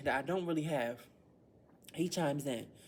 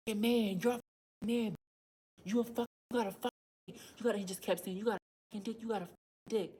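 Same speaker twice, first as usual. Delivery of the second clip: higher-pitched imitation of the boy's yelled insults; mock screaming boy; 6 semitones higher, faster than usual. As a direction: lightly voice the boy shrieking insults at her. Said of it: "screamed at the top of his lungs".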